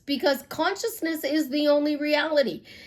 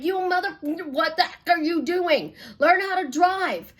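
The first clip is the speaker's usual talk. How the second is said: higher, half-joking yell at a bad driver; mock road rage; 5 semitones higher than usual. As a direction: play-act Chicago road rage at the wheel. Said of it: "You go into road rage".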